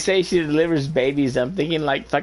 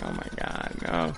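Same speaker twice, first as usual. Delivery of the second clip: much lower, soft, hammed-up despair; dismayed groan; 10 dB quieter than usual. Manager faced with a six-month privacy course, low mock despair. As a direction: drop way down into a mock groan of dread. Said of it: "and I was like".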